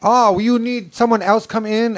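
high mock Asian nail technician; dismissive salon worker in a put-on Asian accent. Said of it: "And she's like".

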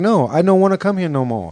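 wife mimicking the dentist's Asian accent; mock Asian accent. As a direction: echo it back in a high mock Asian accent. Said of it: "She's like".

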